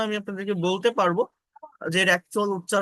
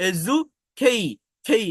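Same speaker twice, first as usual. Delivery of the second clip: খেই punched a little harder; teacher stressing খেই; 4 dB louder, slower than usual. Shown as a demonstration. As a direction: lean on খেই. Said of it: "এখানে একটু চাপ দিয়ে বলতে হবে".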